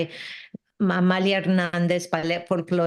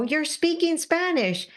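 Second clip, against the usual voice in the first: principal's accusation; 9 semitones higher than usual. Retold or imitated. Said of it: "he comes over and he goes".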